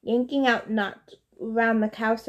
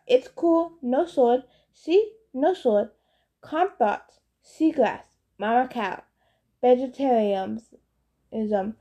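calming; slower than usual. Acted. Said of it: "speaking as calmly as I could".

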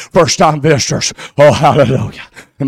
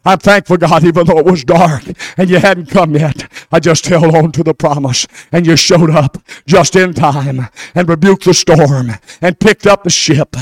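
prayer; 2 semitones lower than usual. Acted. Pastor thanking God in prayer before the church. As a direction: pray it humbly to God.

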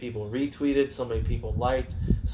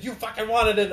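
mock heel taunt; 10 semitones higher than usual. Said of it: "he's like".

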